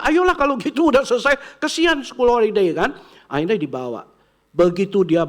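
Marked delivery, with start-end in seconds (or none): 0.0-3.0 high, louder grandma voice giving in; indulgent grandma. Retold or imitated. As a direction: sound like a grandma spoiling her grandchild.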